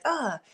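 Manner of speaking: a mild mock groan of frustration; half-hearted disgusted grunt; annoyed ugh. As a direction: let out a small irritated ugh. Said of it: "reaction that was like".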